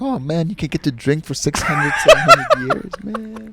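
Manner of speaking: laughing imitation of a friend. Real, not acted. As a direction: giggle through a mock quote. Mocking friend's reasoning.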